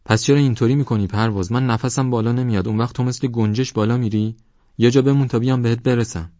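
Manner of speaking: breathless, frustrated loud call; exasperated shout at the friend running ahead; tired and angry. Acted. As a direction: complain loudly, out of breath. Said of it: "خسته و عصبانی شد".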